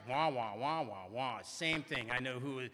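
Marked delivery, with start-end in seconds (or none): 0.1-1.4 low droning wah-wah chatter; mock droning wah-wah. Bored member mimicking how others talk, low droning wah-wah. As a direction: drone it like meaningless talk. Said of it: "when you guys talk".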